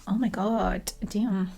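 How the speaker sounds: gasp, then a slow whispered oh my god; shocked whisper. Real, not acted. Reacting to the murder scene with a stunned whisper.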